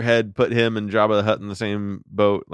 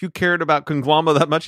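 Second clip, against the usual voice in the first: surprised; 6 semitones higher than usual. Retold or imitated. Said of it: "He goes".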